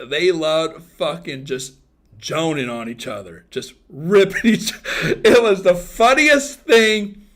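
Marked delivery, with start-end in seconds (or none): 3.9-7.3 loud, high laughter through slow words; words stretched out by laughing. Real, not acted. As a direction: crack up while telling it. Laughing at a fond memory.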